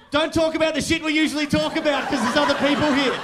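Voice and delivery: loud, high comic shout; blunt warning. Retold or imitated. Driver warning a caller on speakerphone about passengers, in a loud urgent shout. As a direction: belt out the warning without a breath.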